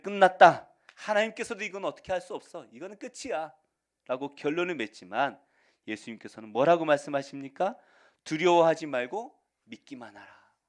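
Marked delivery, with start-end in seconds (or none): 0.0-3.5 despairing cry. Retold or imitated. People declaring it's over. 8.2-10.5 loud, ringing declaration; loud proclamation. Acted. Jesus' words proclaimed.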